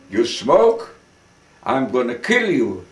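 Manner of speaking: a camp commandant barking a threat, only half-loud; retold threat, hollered. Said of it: "he started to holler".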